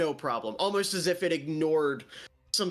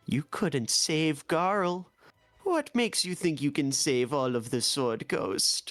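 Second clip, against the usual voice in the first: low, hissed, menacing stage whisper. Game master voicing Kaziel creeping into a player's brain, Kaziel's half-whisper. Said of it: "it just whispers".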